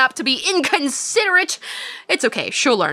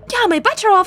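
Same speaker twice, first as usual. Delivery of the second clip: first eager take, "Yeah" lifted up high; higher excited read; 8 semitones higher than usual. Shown as a demonstration. Streamer reading a game line, first take higher and brighter. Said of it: "said the same thing".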